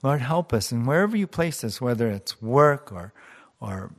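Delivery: earnest, steady prayer voice; closing prayer. Acted. Pastor praying over the congregation, earnest and steady. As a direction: pray for the congregation with conviction.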